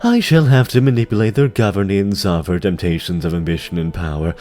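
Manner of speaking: sly, silky demon lord voice; lightly voiced demon, smooth and mocking; scheming dreadlord. Tichondrius lays out his plan.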